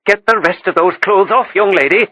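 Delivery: mock stern, tender underneath; gentle mock anger. A narrator's reading. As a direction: tease her like a fond scold. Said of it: "gentle mock anger in her voice".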